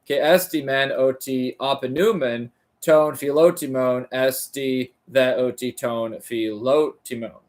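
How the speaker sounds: careful, measured reading of ancient Greek; reading Greek aloud. Acted. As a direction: sound out each Greek word deliberately. Continues reading Greek text.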